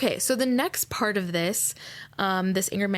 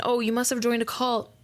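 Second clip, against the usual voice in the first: mock accusation; 4 semitones higher than usual. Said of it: "like, saying".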